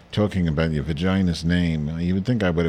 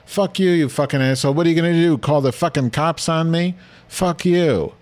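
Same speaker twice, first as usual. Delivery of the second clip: high, loud mock drunk scream; drunken screaming; 9 semitones higher, 3 dB louder than usual. Drunk man screaming at the condo association head, loud high mock yell. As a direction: rant it like a drunk picking a fight. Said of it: "was screaming at the top of his lungs".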